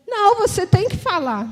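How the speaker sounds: don't let her stay silent; insistent sister. Retold or imitated. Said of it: "e ela". (irmã insistindo, mais aguda e firme)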